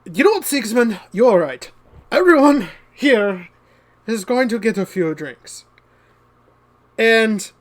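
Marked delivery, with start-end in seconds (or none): 0.0-5.6 bright, louder, higher announcement; jovial declaration. Acted. Kikoru announcing drinks for everyone, cheerful and loud. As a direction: throw the whole room a cheer.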